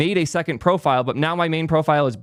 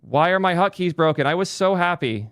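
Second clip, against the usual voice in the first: higher, exasperated complaint at broken hotkeys; real exasperation; 4 semitones higher than usual. Real, not acted. Streamer complaining to chat about broken hotkeys, exasperated. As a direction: let the frustration push your voice up. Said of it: "I'm just gonna be pissed off".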